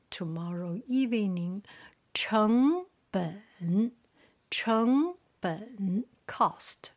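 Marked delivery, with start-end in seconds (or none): 2.1-6.0 成本 with 成 rising, 本 dipping; second tone, third tone. Shown as a demonstration. Teacher drilling the third line, 成 rising, 本 dipping. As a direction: sweep 成 up, then drop into a dip on 本. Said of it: "The third line".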